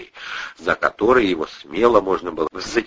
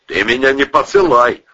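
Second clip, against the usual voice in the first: loud snarling retort; snapping back; 6 semitones higher, 6 dB louder than usual. A narrator's reading. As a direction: snap back at her. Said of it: "огрызнулся отставной военврач".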